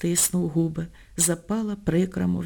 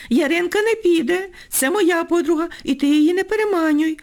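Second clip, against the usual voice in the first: high, louder fierce warning; snarling; 9 semitones higher, 3 dB louder than usual. A narrator's reading. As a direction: lash out, defending your friend. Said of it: "визвірилася Півоня".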